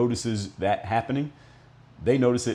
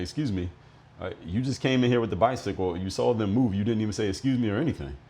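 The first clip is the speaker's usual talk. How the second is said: a bit more aggressive; 2 semitones higher than usual. Retold or imitated. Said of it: "a little bit more aggressive with the way I was talking".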